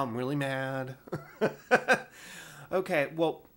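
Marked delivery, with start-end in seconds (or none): 1.4-2.1 mock anger dissolving into a laugh. Real, not acted. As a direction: say it through a laugh. Joke about losing temper.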